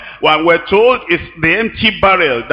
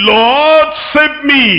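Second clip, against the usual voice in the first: urgent cry for help; 8 semitones higher, much slower than usual. Acted. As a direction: cry it out like a sinking man. Peter's cry, preacher acts it.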